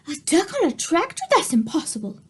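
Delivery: lightly voiced doubtful grandma. A narrator's reading. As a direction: puzzle it out like grandma.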